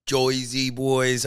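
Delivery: put-on slow, drawn-out Joisey accent; attempted New Jersey accent. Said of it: "I can't really do an accent".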